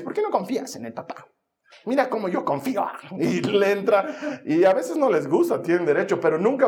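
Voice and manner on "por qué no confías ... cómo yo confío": mocking sister. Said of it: "hasta se burla".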